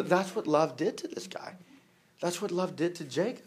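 whispered aside. Acted. Whispered aside about love.

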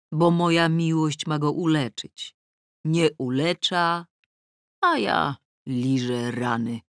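ordinary delivery

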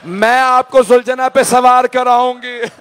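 slow tearful plea, voice lifting; crying sister. Acted. Zainab clinging to her brother's arm, pleading tearfully. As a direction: beg your brother through tears. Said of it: "और रो के कहा".

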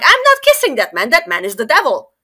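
high, loud indignant refusal; defiant refusal. Acted. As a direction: refuse outright, outraged.

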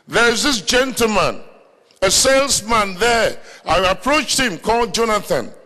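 high-pitched, ringing preacher's delivery; fervent preaching. Acted. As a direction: preach it out with rising excitement.

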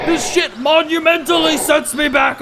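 high, loud frustrated shout; angry rant. Real, not acted. Player raging over his loss, loud angry shout. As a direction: vent the frustration loudly.

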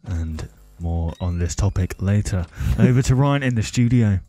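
mock broadcast sign-off; mock commentating. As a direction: hand over like a broadcast commentator. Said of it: "So I'll be doing the commentating".

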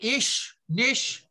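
"ish" and "nish", each closed on a hushing sh; Southern German pronunciation. Shown as a demonstration. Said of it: "the stuff in Southern Germany".

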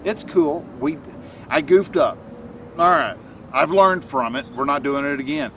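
a gentle pep talk to yourself after a goof; gentle, positive and firm. Shown as a demonstration. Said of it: "very gently, very positively, very firmly, go".

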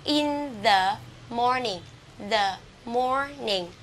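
"the morning" slowly, with "the" as "thuh"; THE before consonant. Shown as a demonstration. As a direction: hold a schwa in "the" before "morning". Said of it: "chúng ta sẽ đọc cái từ này là the". (đọc chậm "the morning", "the" thành "đơ")

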